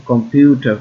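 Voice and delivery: কম্পিউটার with a firm পিউ; stressed syllable demo. Shown as a demonstration. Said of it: "এইটা হচ্ছে stress word". (কম্পিউটার-এর পিউ অংশে জোর)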